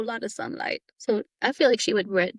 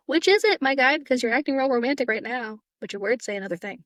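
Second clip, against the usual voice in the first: exasperated callout; 3 semitones higher, 4 dB louder than usual. Retold or imitated. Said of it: "I'm like".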